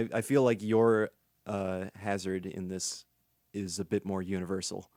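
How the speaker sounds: fighting off a sneeze; holding back a sneeze. Real, not acted. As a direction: voice tight from a held sneeze. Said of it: "I'm trying not to sneeze".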